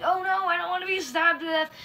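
comic exaggerated dread; mock fright. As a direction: whine it in feigned panic. Acted victim of creepy guy.

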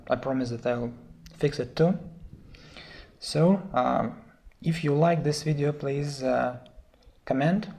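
hoarse, sore-throated voice. Real, not acted. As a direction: speak through a sore throat. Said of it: "I think, a sore throat".

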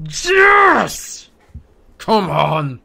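screamed high, then loud and exultant; real triumphant yell; goal celebration. Real, not acted. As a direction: roar as your team scores.

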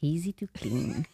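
careful English accent feature reading; deliberate Quebecer's English accent; showy English accent. Shown as a demonstration. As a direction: recite it in your best English accent. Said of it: "vous allez voir mon bel accent anglais".

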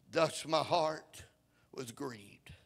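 slow, hushed, near whisper; hushed scripture reading. Acted. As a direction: drop right down to a breath. Sudden drop after the climax.

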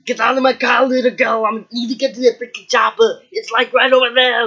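a lightly voiced action-hero bark; mock tough guy barking orders; Arnold impression. Kid as Arnold ordering the girl out, mildly gruff. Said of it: "I'm Arnold".

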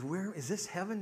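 lightly acted woman asking where she is; wondering new arrival. Woman arriving at the pearly gates, wondering.

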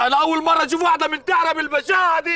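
shocked exclaim, corrected word. Acted. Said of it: "مش مقتوله، منتحره".

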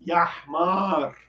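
"Ya Hmar" shouted at a teammate; mock shout. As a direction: yell "Ya Hmar" at a ball hog. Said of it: "O que que todo mundo diz?". (grito de brincadeira num jogo de futebol)

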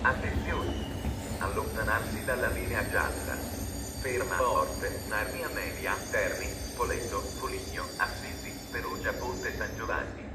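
PA loudspeaker announcement voice; echoing station tannoy; train station announcement. Real, not acted.

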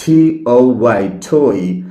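জে ও ওয়াই spelled slowly, then জয় said clearly; slow spelling, then the word জয়; correct pronunciation. Shown as a demonstration. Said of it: "সঠিক উচ্চারণ".

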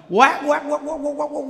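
a shrill-free mock scold; mock squawking scold. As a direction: squawk it like a hen about to lay. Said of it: "quát như gà mắc đẻ".

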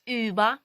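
"Über" with long rounded ü, loud and clear; German ü demo. Shown as a demonstration. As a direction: model "Über" loudly, ee through rounded lips. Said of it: "Потренуємося на словах".

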